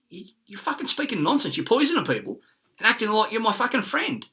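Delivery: retold angry retort. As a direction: bite back at her, heated.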